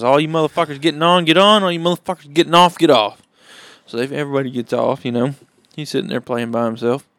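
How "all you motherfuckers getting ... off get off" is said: put-on kid train conductor.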